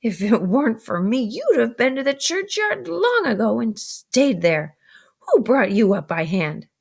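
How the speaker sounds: 甲高い声で叱りつける姉; high, sharp scolding sister's voice; scolding older sister. Acted.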